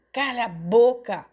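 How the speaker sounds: mild shout to shut up; yelled order. A narrator's reading. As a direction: snap angrily for silence. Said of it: "diante do berro".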